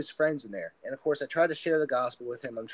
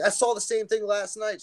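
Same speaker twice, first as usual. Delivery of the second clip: higher-pitched retold alarm; mock freak-out; 8 semitones higher, 3 dB louder than usual. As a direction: imitate a rattled girl, pitched up. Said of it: "She starts freaking out".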